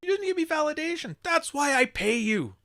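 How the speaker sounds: "That's what the money's for" as a mock Don Draper; Don Draper impression. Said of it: "Where's that Don Draper line?".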